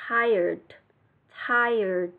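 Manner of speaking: "tired" with a faint d at the end; barely touch the d at the end of "tired"; light final d. Shown as a demonstration. Teacher showing students the light d sound in "tired". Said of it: "có chữ đơ nhẹ".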